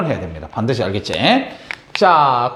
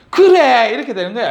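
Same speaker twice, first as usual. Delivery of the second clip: approving teacher; 4 semitones higher than usual. Pretend. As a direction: play a teacher praising a pupil's answer. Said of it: "선생님이 이래 얘기하겠지".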